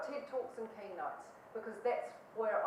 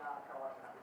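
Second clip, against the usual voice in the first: retold dread; 9 semitones lower, 6 dB quieter than usual. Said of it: "we all just went".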